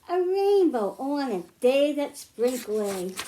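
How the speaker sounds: gentle sing-song picture-book rhyme reading; reading to children. Acted. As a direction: read the rhymes aloud to a group of kids, lightly lilting. Librarian reads picture book aloud.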